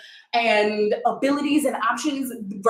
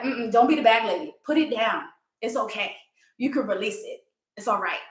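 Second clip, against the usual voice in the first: soothing reassurance. Retold or imitated. Soothing retreat friend, bag lady game.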